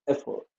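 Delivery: "Effort" with stress on the first syllable. Shown as a demonstration. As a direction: hit the start of "Effort", let the end fall away. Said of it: "on the first syllable".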